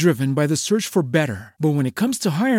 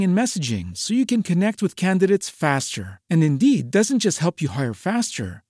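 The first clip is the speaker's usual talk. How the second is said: ordinary talk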